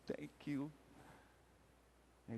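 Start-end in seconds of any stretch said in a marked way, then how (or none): 0.1-0.7 very soft, hushed thanks; barely voiced, tender gratitude; grateful murmur. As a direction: imitate a weak, touched patient. Grateful patient voiced by storyteller.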